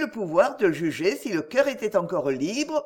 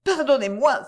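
high, louder cry for pardon; tearful plea; 6 semitones higher, 4 dB louder than usual. A narrator's reading. Camilla in tears begs Edgar's pardon, high and louder. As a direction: beg through tears. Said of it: "s'écria-t-elle".

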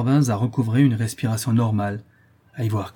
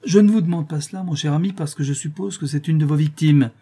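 smiling; 5 semitones higher than usual. Acted. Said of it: "ajouter en souriant".

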